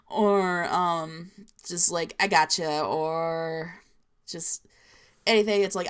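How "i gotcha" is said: "I gotcha" run together as one word; slurred together. Shown as a demonstration. Showing how New Jerseyans slur words, run together. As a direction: slur GOTCHA casually, northeastern style. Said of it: "I slur my words together a little bit".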